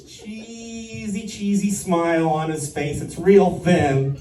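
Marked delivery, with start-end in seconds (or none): none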